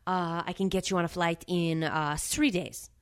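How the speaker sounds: halting mock French desk clerk; put-on French accent. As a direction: imitate a French receptionist, dragging the end. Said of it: "with a very heavy French accent".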